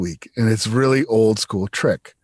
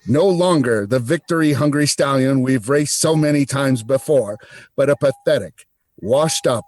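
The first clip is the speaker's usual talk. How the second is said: put-on old-timey radio voice. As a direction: voice through a metal cup, like an old radio. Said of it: "Old-timey radio voice".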